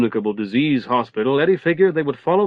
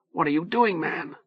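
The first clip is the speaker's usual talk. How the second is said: pleading; 5 semitones higher, 6 dB quieter than usual. A narrator's reading. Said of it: "Eddie was pleading".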